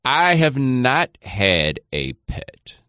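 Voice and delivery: each word stretched out slowly; slow, deliberate answer. Real, not acted. Deliberate answer to pet question.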